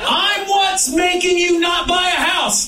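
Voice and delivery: mock boast. Self-mocking boast.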